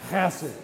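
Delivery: chesed with a throaty kh at the start, like hawking one up; guttural chesed. Shown as a demonstration. Preacher leads the church in saying chesed, throaty kh. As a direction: scrape the ch in chesed from the back of the throat. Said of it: "One, two, three".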